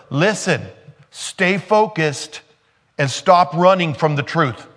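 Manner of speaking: loud, slow stay focused, pressing hard; stern rebuke. Pretend. Preacher imagines rebuking the woman himself, stern. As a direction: tell her to stop running, firmly. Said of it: "If I was Jesus, I would have said".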